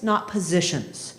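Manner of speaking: "not positions" said slowly and firmly, stress on "not"; slow emphatic contrast. Shown as a demonstration. Trainer hammering home the key skill: slow, emphatic. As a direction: land the contrast word by word.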